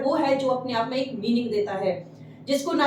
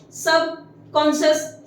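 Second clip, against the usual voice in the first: drawn out, each syllable separate; slow model word; slower than usual. Shown as a demonstration. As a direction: stretch the word for the class. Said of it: "teacher models word slowly".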